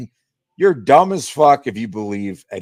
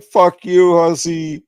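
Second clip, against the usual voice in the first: higher, louder mock insult; mock yell; 8 semitones higher, 6 dB louder, slower than usual. Imagining what a troll would type, as a loud mock yell. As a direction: bark it like a chat troll. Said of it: "be like".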